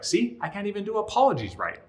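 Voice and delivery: high, whiny mock self-pity; mock self-pity, pitched high and pleading; self-pitying whine. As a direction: whine it up high, feeling sorry for yourself. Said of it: "then she's like".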